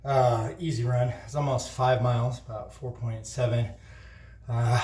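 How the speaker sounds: panting after a run; breathless, catching air between phrases; out of breath. Real, not acted. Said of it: "I'm a little out of breath".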